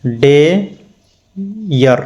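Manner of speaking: "डेयर" very slowly as डे, pause, यर; broken into syllables. Shown as a demonstration. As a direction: split "डेयर" in two, each part drawn out. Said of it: "यहाँ पे देखिए डेयर". ("डेयर" को तोड़ के, डे... यर)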